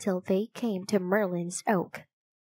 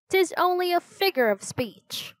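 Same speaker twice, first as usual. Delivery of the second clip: quickly; 8 semitones higher than usual. A narrator's reading. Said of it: "Teddy said quickly".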